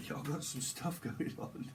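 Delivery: breathy, drawn-out words through laughter; laughing. Real, not acted. Reader amused that y'all got some stuff going on, laughing. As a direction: talk slowly while giggling.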